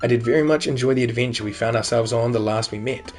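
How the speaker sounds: a mock-gentleman reading his letter; formal letter reading. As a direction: read the letter out in a lightly grand, formal voice. Reads finished letter aloud.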